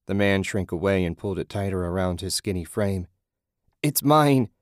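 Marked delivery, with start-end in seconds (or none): 3.8-4.5 high, loud whine; whining. A narrator's reading. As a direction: whine like a clingy vagrant. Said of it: "he whined".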